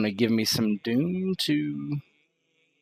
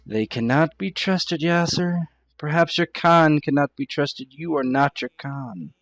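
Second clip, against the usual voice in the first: lightly voiced, higher-pitched refusal; a hint of a wary captive, pitched up; distrustful character; 4 semitones higher than usual. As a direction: object formally, lightly in character. Game master voices distrustful Fatima.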